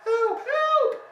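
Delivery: a bear stuck in the bath shouting; loud cries. A narrator's reading. Bear stuck in a soapy bath shouting for help, high and loud. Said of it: "then very loudly".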